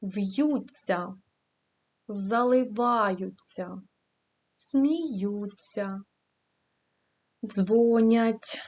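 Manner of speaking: заливаються and щебечуть drawn out slowly, stress made clear; careful word stress. Shown as a demonstration. Teacher shows the class where the stress falls, word by word. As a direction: read each word alone as a model. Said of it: "правильно поставимо наголос".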